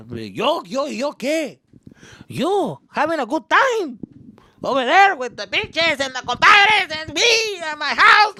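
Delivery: put-on high, loud drunken tirade; snapping in rage. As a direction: blow up, yelling high and drawn out. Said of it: "fucking snapped".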